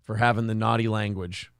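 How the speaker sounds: mock sheepish. Mock-recounting a scolding from dad.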